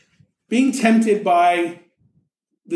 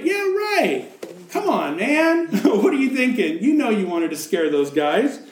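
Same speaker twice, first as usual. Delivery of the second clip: sarcastic disbelief; 3 semitones higher than usual. Acted. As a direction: call his bluff, amused. Preacher mocks the angel.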